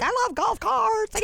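high, loud, slowed gushing; drunk glee. Retold or imitated. Tipsy woman riding back with the guard, high gleeful gush. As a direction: gush about golf carts like a tipsy kid. Drunk self quoted in story.

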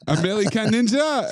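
mock French accent for a film title. Quoting the actor's film title, mock French accent. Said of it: "he's doing a French accent".

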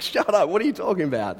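high-pitched, playful disbelief; comic incredulous protest; mock indignant retort. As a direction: toss out a joking, indignant comeback. Mock retort Paul did not give.

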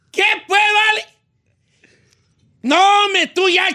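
high, drawn-out Michoacán ranch greeting; exaggerated Michoacán singsong, stretching the last word long and loud; Michoacán accent. Vato greeting a friend back from the north, hammed-up Michoacán accent. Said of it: "de un vato de Michoacán saludando a otro".

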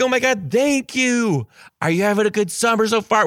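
put-on high, sing-song child-directed voice; sweet teacher voice. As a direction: gush then chatter brightly to a kid. Talking to child at door.

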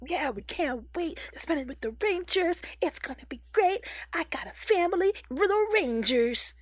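high-pitched, gushing robot sidekick voice; excited Beastbots. Acted. Beastbots chatting among themselves about Christmas, excited.

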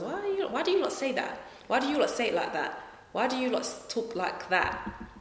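high, fast teasing demand; quick high retold challenge to cousins; mock insistent question. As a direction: press them lightly on why they talk that way. Questioning cousins about their speech.

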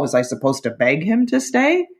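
ordinary talk

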